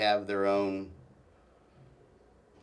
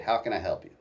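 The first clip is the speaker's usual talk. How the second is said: put-on drunken voice; faster than usual. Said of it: "I said it in kind of a drunken voice".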